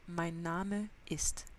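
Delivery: mein Name ist said slowly and clearly; slow model phrase. Shown as a demonstration. Teacher modelling mein Name ist slowly. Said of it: "pour dire je m'appelle".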